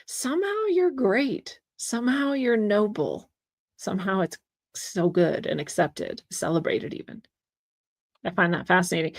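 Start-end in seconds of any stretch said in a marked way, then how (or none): 0.1-1.6 mocking rise, much higher, on "great"; sarcastic. Real, not acted. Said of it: "But if you say it about white people or Christians". 1.8-7.2 falling, flat "Somehow" stressed; deadpan it, stress on "Somehow"; dry sarcasm. Real, not acted. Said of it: "But if you say it about white people or Christians".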